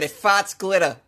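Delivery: Boston accent. Shown as a demonstration. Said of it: "fun thing to say with a Boston accent".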